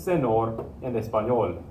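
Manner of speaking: "senor" and "español" both with plain n, no ny; missing tildes. Shown as a demonstration. Teacher reading the misspelled words to students, plain-n mispronunciation. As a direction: read "senor" and "español" as sen-OR, espa-NOL. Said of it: "But right now".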